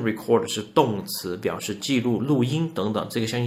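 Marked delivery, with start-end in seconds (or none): 0.0-0.5 record as the verb ri-CORD, second syllable stressed; record said verb-style, ri-CORD; record with the short ri- and stress on -cord; verb pronunciation. Shown as a demonstration. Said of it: "如果读成 ... 是动词".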